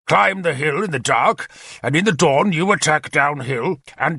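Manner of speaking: a lightly voiced commander, brisk and eager; keen war leader briefing his captains; Arthur's plan. Arthur explains the attack to his captains, eager and confident.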